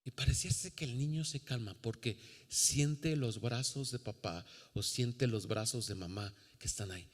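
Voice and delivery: soft, calming delivery; soothing. Acted. Preacher describing a baby held in arms, soothing. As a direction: let it settle softly, like lulling a baby.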